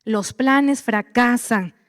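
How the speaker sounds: slow, weighty repetition; slow emphatic. Shown as a demonstration. Preacher hammering the verse into the congregation, slow. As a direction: drive the verse home slowly. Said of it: "Métetelo en la cabeza".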